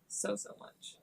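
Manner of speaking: breathy fade. Real, not acted. Fading emphatic end.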